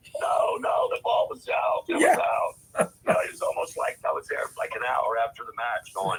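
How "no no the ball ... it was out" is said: put-on loud, insistent, drawn-out yell. Retelling arguing with the umpire over a call: imitating own yelling. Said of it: "I'm yelling at the umpire".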